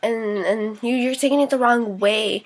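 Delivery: a hint of the mother backpedalling innocently; mock mom voice. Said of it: "her mom tried saying".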